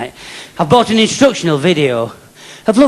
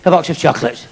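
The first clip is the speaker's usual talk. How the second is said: teacher voice. Retold or imitated. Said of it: "she goes".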